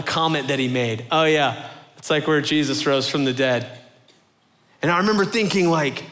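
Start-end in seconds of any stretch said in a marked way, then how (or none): 1.1-3.7 offhand, throwaway imitation of a casual remark; nonchalant. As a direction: toss it off like small talk. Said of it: "how nonchalant he had been".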